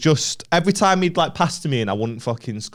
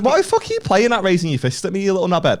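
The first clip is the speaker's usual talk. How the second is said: higher-pitched indignant telling-off; retold angry retort; 6 semitones higher than usual. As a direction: re-enact having a go at him. Retelling his angry retort to rival.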